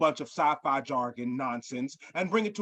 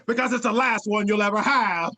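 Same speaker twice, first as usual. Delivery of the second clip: villain reveal; 3 semitones higher, 5 dB louder than usual. Acted. Villain reveal in acted scene.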